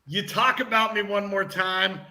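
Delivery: deliberate mock warning, slowing on the payoff; hammed-up menace with dramatic pauses; mock threat. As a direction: play the tough guy calling out a rival. Mock beef callout of mascot.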